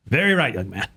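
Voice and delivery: lightly voiced rabbi with a Jewish accent; a hint of comic rabbi Jewish accent. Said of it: "That is a great Jewish accent".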